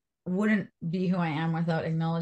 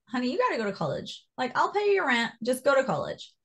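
insistent dad; 6 semitones higher than usual. Retold or imitated. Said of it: "he's the one who said, like".

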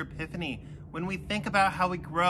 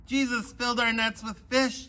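mild yell; 5 semitones higher than usual. Acted. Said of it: "yelled John".

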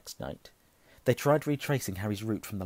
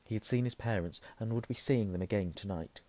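ordinary delivery

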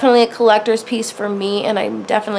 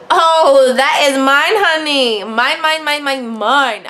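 greedy excitement; 3 semitones higher, slower than usual. Retold or imitated. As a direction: claim it like a greedy kid. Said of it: "I'm like".

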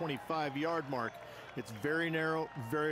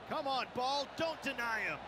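excited plea; 9 semitones higher than usual. Acted. Willing the putt in.

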